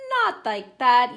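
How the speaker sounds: slow, loud scolding; mild yell. A narrator's reading. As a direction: call it out slowly and loudly. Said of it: "Eve yelled".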